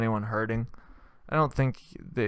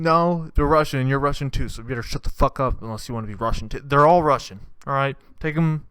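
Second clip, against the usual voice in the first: mock accusing rant; 2 semitones higher, 3 dB louder than usual. Volunteer shouting accusations.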